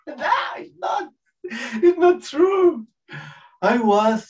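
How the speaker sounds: very high, squealed denial; emotional protest. Real, not acted. Presenter admits the happiness was fake, protesting. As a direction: break out of the act in a high cry.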